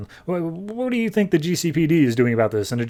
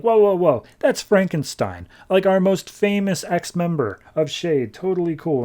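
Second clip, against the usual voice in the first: startled whoa; 6 semitones higher than usual. Retold or imitated. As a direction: hurry to calm everyone down. Scientist calms others down.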